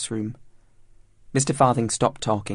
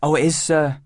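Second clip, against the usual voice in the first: eager schoolboy, higher and louder; bright-eyed pupil's emphatic reply, pitched up; excited agreement; 5 semitones higher, 5 dB louder than usual. A narrator's reading. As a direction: agree keenly with the teacher. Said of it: "You make it sound very exciting".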